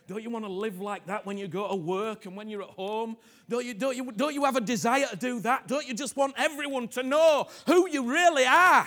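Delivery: rising to a loud, high cry; loud, high, fervent preaching; building shout. Real, not acted. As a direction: climb into a passionate shout.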